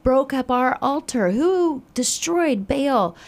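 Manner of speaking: high, loud, outraged shout; outraged demand. Retold or imitated. Townsmen shouting angrily about who destroyed Baal's altar. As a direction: demand an answer for the wrecked altar.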